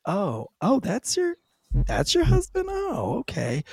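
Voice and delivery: high, squeaky disbelief; hammed-up surprised stranger; mock surprise. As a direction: act stunned it's your husband.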